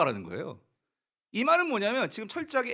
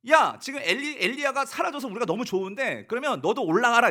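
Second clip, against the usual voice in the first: louder, higher brush-off; scornful dismissal; 3 semitones higher, 5 dB louder than usual. Retold or imitated. Children sending Elisha away, scornful dismissal. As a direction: shoo him away with contempt.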